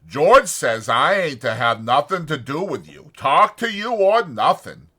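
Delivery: loud, anxious simple man; Lenny's worried voice. A narrator's reading. Lenny frets to himself over the dead puppy, loud and anxious. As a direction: fret out loud about George finding out.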